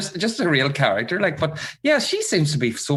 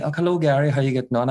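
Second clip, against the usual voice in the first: lightly voiced Irish singer's greeting; a hint of an impression, near the normal pitch; an Irish singer. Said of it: "say it was Daniel and O'Donnell and me".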